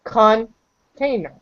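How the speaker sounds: "container" stretched out slowly, kʰɑn-tʰeɪ-nər. Shown as a demonstration.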